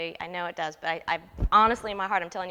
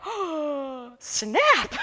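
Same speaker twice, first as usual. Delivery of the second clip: higher, shouted "snap" in mock shock; stung surprise; 7 semitones higher, 5 dB louder than usual. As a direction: blurt it out like you just got burned. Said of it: "And I was like, gasps".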